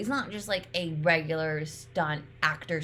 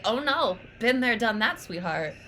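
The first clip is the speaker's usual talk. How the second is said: cocky Jax. Retold or imitated. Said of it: "but then Jax is like".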